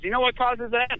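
high lightly voiced quizzing nurse; a hint of a stern nurse.

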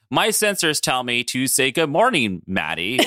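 slow, evenly spaced robot announcement; Herbie. Pretend. Imitating the robot to greet a friend, slow robot voice. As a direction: playfully mimic a robot reporting its sensors. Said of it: "we should all talk like that".

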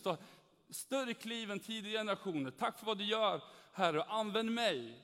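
fervent pleading prayer, slowed. Retold or imitated. Young Christian praying alone to God, fervent. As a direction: pray aloud, longing to be used. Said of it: "Något i den stilen".

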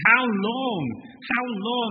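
high, loud exasperated cry; frustrated cry. Acted. Jesus to his failing disciples, loud exasperated cry. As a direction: let the frustration burst out. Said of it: "He says".

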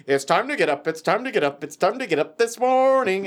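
repetitive singsong wake-up chant; chipper morning dad. Retold or imitated. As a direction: lilt it like a relentlessly cheerful dad. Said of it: "it's that chipper person".

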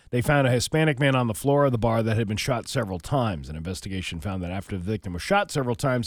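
reading a crime report aloud; matter-of-fact newsreader delivery; news read. Acted. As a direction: read the local news story in a steady announcing tone. Reads out a local news report.

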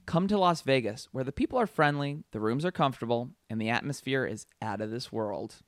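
measured promo read, easing down at the end; slogan read with spaced-out phrases; tagline read. Acted. Reads out a movie tagline.

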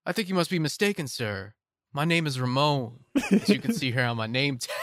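lightly voiced polite casino dealer, quick at first; a hint of a deadpan dealer brushing off a stranger; Bernie Mac's delivery. Dealer politely denying who he is to an old friend, lightly imitated. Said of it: "the way Bernie Mac delivers the lines".

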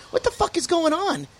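high confused alarm, retold; alarmed shout. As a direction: yell in startled confusion. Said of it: "I'm holding it going".

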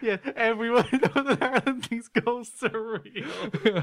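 high, slow mock Northern Irish; laughing, hammed-up Northern Irish accent. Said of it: "That's our great Northern Ireland accent".

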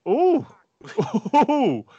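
high, loud gasp of delight; wince-cheer at a big slam; excited ooh. Real, not acted. Reacting to a big throw.

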